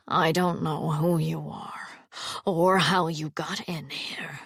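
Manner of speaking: slow, whispered and trembling; frightened whisper. A narrator's reading. Alvar facing the armed stranger, frightened whisper. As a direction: barely dare to speak.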